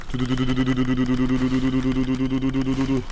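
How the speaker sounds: steady rattling "du-du-du" drumroll; mock drumroll. Streamer making a drumroll noise while the roulette spins. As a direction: drum the syllables evenly like a roll.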